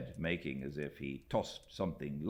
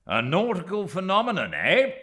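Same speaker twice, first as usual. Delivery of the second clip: laughing; 12 dB louder than usual. A narrator's reading. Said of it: "laughed Steerforth".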